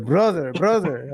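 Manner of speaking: put-on light Cuban accent, drawn out; a hint of a Cuban accent; Cloud's Cuban accent. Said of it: "I read it in his Cuban accent".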